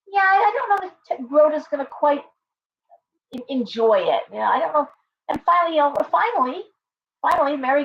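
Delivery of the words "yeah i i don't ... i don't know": high hesitant friend. Retold or imitated. Friend voiced in retold episode.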